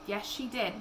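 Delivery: hushed reluctant yes; soft and sad. A narrator's reading. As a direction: break it to the child softly. Hand on arm, sad news.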